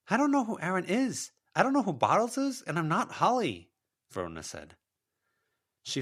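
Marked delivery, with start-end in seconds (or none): 0.1-3.7 higher and louder, firm refusal; defiant young woman. A narrator's reading. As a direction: stand your ground against her. Verona denies identity.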